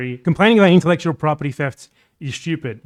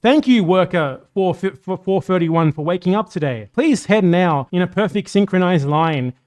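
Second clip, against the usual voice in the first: robot voice; 3 semitones higher than usual. Retold or imitated. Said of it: "a robotic voice is like".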